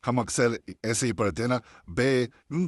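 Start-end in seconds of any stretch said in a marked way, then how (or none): 1.9-2.7 बे with a slanted e vowel; बे, slanted, not a straight बी; wrong slanted ee. Shown as a demonstration. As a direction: show the common mistake बे. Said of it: "तो ये नहीं पढ़ना भी".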